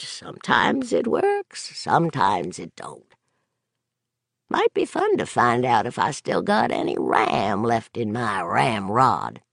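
a hint of a rough old vet; wistful old drunk, lightly done; lightly voiced old drunk. Gary's old voice, musing.

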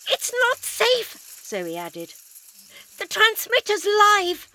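high, loud, slow warning shout; urgent shout. Acted.

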